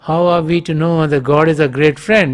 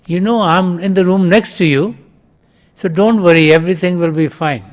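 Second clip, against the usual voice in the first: calling back; 4 semitones higher, 4 dB louder than usual. Retold or imitated. Father calls reassurance across rooms.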